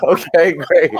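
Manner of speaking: high laughing okay great. Real, not acted. Son laughing at mother's made-up French word, amused.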